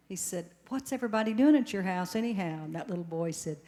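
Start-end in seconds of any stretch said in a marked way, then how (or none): 0.7-2.6 exasperated. Retold or imitated. Exasperated caller loses patience.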